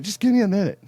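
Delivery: retold yell, high and loud; exasperated mock yell. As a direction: act out yelling back at wife. Acting out pained reply to wife.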